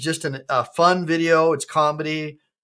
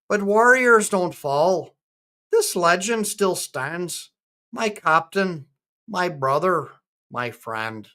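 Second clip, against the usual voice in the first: measured recital with a light Scottish lilt; attempted Scottish accent; 2 semitones higher, slower than usual. Ballad tribute to a Marine friend, attempted Scottish accent. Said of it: "I'm gonna try and be Scottish".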